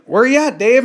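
high-pitched comedian retelling a call; Dave Chappelle. Retold or imitated. Podcaster voicing the caller in the comedian's story, amateur impression. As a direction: pitch it up like a stand-up quoting someone. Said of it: "is that a good Dave Chappelle".

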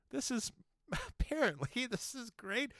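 high-pitched laughing through the words; giggly, tickled delivery; amused laughing. Real, not acted. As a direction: barely get it out for laughing. Laughing while telling a funny story.

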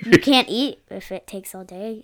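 laughing while talking. Real, not acted. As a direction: giggle through the words. Laughing joke about lunch.

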